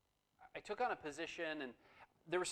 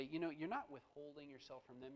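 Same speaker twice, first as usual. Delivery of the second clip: gentle Holy Spirit; 5 dB quieter than usual. Retold or imitated. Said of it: "very gently say".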